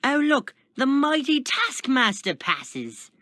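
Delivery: high, loud mocking shout; screamed taunt. A narrator's reading. Prisoner heckles the passing Taskmaster, screaming. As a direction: scream it down the cell block. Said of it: "another man screamed".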